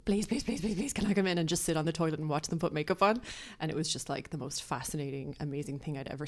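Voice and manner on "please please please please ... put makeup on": put-on begging child. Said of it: "I would beg them".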